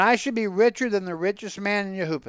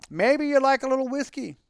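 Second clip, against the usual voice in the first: coaxing host; 6 semitones higher than usual. Acted. Hosts offering Tevye a drink.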